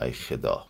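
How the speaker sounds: khodâ said as "khedâ", with an e in خدا; lightly imitated regional vowel, خدا as "khedâ"; Behtash's accent. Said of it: "بهتاش این مدل و این لحن بیان رو داشت".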